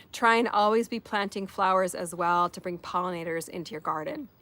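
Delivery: hoarse, fading voice; raspy whisper. Real, not acted. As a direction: voice giving out, barely there. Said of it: "I'm losing my voice here".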